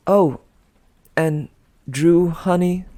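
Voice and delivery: a mocking honeyed parting shot; syrupy call-back. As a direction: call her back with fake sweetness. Piper calls Drew back.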